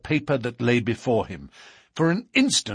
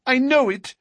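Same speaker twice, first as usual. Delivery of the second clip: put-on higher, louder accusing young woman; jealous accusation, raised and loud; jealous outburst; 10 semitones higher, 4 dB louder than usual. A narrator's reading. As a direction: hurl the questions at him. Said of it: "she cried".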